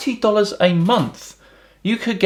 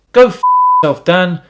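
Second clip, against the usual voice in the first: mock angry outburst; 2 semitones higher, 7 dB louder than usual. Reading out an abusive comment.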